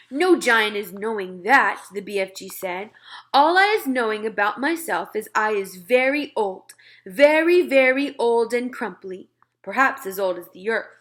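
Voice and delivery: put-on friendly giant talking to a little girl; BFG giant voice. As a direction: play the big friendly giant, earnest and muddled. BFG voice held.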